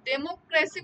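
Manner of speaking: slow ডেমোক্রেসি, weight on ক্রে; ডেমোক্রেসি said slowly to show the stressed ক্রে; stress on second syllable. Shown as a demonstration. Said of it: "ডেমোক্রেসি আমি যখন উচ্চারণ করতেছি".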